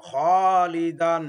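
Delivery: slow, careful model of খলিদান; teacher stretches the heavy alif; heavy drawn-out kha. Shown as a demonstration. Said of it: "মোটা করে পড়তে হবে আলিফকে".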